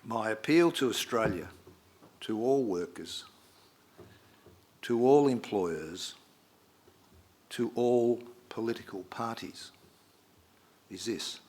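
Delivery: loud, measured call to the nation; rousing oratory. Retold or imitated. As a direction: proclaim it like a prime minister's appeal. Quoting Bob Hawke's foreword.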